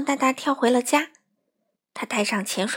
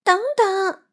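high, loud urgent call; 9 semitones higher, 6 dB louder than usual. A narrator's reading. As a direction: shout to stop them. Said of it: "嚷道". (高声急急地嚷)

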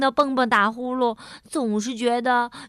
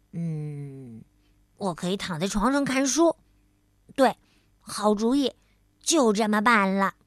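talking to himself; 4 semitones lower than usual. Acted. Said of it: "他自言自语地说".

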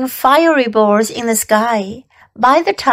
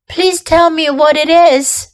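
pleading a bit louder; begging; 5 semitones higher, 4 dB louder than usual. A narrator's reading. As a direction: coax it out of her, mildly pleading. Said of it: "begged Wilbur".

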